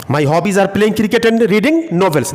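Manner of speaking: very slow model sentence; teacher modelling slowly; slow dictation. Shown as a demonstration. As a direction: lay each word out for learners. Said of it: "My hobbies, my hobbies are".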